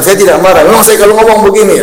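mock huffy protest from a man who won't admit anger; indignant denial. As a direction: play the angry man insisting he's calm. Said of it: "Tapi dia bilang".

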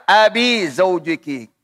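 slow, "Abi Zaujiki" with i ending; the incorrect i-ending "Abi", drawn out; wrong reading. Shown as a demonstration. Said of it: "Tidak boleh baca". (dibaca salah Abi, pelan)

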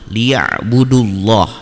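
LIYA'BUDULLAH, short "du" run straight into a thick "lloh"; slow recitation of liya'budullah, no long u before the doubled l; joined into Allah. Shown as a demonstration. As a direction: recite "liya'budullah" slowly as one joined word. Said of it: "Jadi masuk ke lafadz Allah".

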